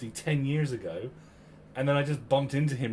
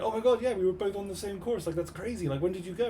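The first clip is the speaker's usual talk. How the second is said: higher-pitched excited retelling; amazed, pitched-up quote; retold amazement; 9 semitones higher than usual. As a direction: relive the thrill of the coincidence. Retold amazed discovery of shared course.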